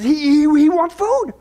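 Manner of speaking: slow, stuttered mock terror; terrified stammer. Al reporting to Kenny, mock-terrified stammer. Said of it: "Al, he's terrified".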